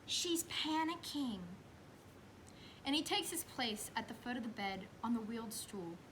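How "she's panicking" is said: nurse's aside. Retold or imitated. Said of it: "The nurse whispers to the doctor".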